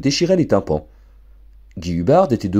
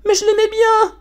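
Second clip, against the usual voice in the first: put-on wailing spoilt girl; 4 dB louder than usual. Girl protests tearfully.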